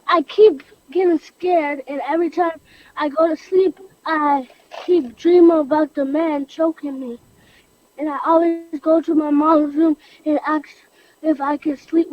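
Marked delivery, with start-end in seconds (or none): 0.1-10.0 tearful. Real, not acted. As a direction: voice close to crying. Child recalls trauma, crying.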